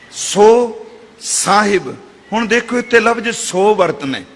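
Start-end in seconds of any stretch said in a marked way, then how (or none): 1.2-2.0 ਸਾਹਿਬ in two syllables, saa-hib; careful correct pronunciation. Shown as a demonstration. Preacher showing the proper reading, careful saa-hib. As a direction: sound the short i in ਸਾਹਿਬ. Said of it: "ਸਾਹਿਬ ਪੜ੍ਹਨਾ ਹੈ".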